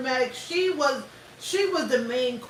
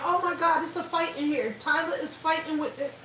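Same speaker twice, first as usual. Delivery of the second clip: mock 911 caller; 4 semitones higher than usual. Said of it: "call nine one one saying".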